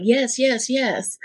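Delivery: put-on a child jumping at the chance to be saved; eager child's yes. Little girl at church eagerly says yes to salvation, excited. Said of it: "I was so excited when they said".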